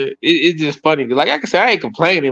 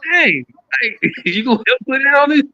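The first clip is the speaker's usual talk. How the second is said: laughing mock plea; 9 semitones higher than usual. Asking wife to pay bill.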